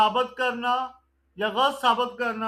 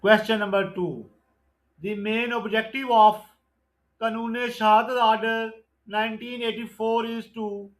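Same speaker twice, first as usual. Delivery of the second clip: slow, deliberate exam-question read; measured MCQ recitation; slow quiz reading; much slower than usual. Acted. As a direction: dictate each question and option slowly. Reads MCQ question and answer.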